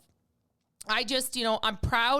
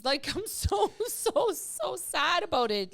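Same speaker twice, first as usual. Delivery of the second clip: emotional; 4 semitones higher, slower than usual. Real, not acted. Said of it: "I get emotional".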